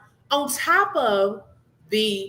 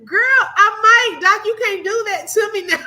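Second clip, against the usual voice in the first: breathless laughing reply, higher and louder; 8 semitones higher, 6 dB louder than usual. Real, not acted. Streamer answering Kathleen's oxygen joke, laughing breathlessly. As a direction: gasp it out between laughs. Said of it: "Do you need my oxygen?".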